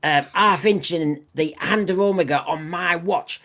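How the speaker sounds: put-on a half-managed Cockney Doctor accent. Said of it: "It's very hard to do".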